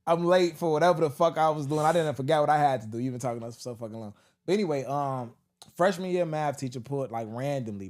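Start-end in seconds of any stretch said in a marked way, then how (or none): 0.1-4.1 laughing. Retold or imitated. Mock impatient goodbye.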